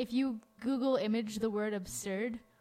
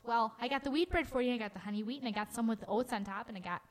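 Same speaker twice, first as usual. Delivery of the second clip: grandma impression; faster than usual. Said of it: "impression of my grandma".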